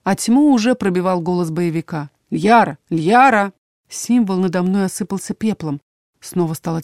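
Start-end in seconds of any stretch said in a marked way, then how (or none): 2.3-3.5 urgent calling. A narrator's reading. Fighter calls heroine awake.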